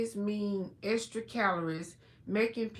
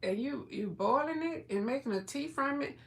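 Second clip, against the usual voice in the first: fast, higher, mock-puzzled voice; incredulous quote; 5 semitones higher, faster than usual. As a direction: act out your own disbelief, quickly. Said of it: "And I'm like".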